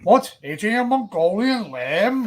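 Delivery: grand, drawn-out mock-theatrical delivery; hammed-up outraged orator, drawing out the words; mock declamation. Friends riffing on a famous arrest rant, hammed-up declamation.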